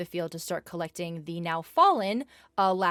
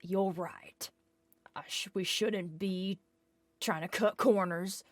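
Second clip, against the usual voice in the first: softer, grudging and subdued; begrudging apology; 2 semitones lower, 4 dB quieter than usual. Acted. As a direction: mumble it out like chastened workers. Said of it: "begrudgingly say".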